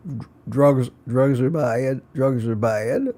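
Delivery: a hint of the school counselor, slow and earnest; Mister Mackey impression. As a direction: lightly mimic the cartoon counselor lecturing. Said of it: "I love Mister Mackey".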